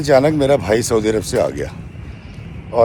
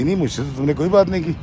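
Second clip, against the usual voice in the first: quick, higher dismissive brush-off; curt denial; 5 semitones higher, 3 dB quieter, faster than usual. Retold or imitated. Sister-in-law coldly denying she was ever told, fast and curt. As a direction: snap back a fast denial, turning away.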